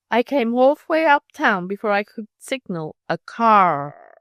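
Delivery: lightly mocked New England accent with long A's and rolled R's; playful New England accent parody. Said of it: "mocking the long A's and rolled R's of the New England girl".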